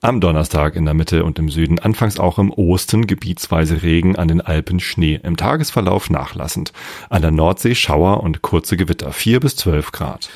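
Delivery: weather forecast read. Acted. Reads weather forecast on air. (Wetterbericht im Nachrichtenton)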